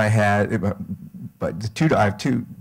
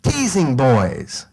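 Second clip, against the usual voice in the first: put-on slow, drawn-out little kid yell; half-real scream; mock child's scream; 2 semitones higher, much slower than usual. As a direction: holler it like an indignant three-year-old, stretched out. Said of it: "she screamed".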